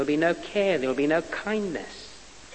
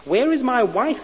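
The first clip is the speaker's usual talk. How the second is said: high, loud narrated scream for his wife; 9 semitones higher, 6 dB louder than usual. A narrator's reading. Man lost in hell screams for his missing wife. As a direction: scream it into the dark. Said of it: "he screamed".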